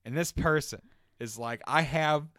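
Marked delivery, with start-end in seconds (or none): 1.7-2.3 higher, louder sheepish voice with a laugh; coworker's answer. Retold or imitated. Front register coworker admits hoarding bandages, laughing. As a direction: play the coworker, caught out and laughing. Coworker reveals the only package.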